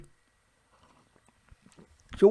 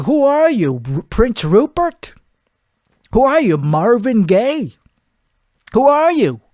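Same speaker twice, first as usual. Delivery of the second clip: raised-pitch indignant questioning; mock indignant retort; 3 semitones higher than usual. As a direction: challenge him with mild mock outrage. Retelling his retort to the producer.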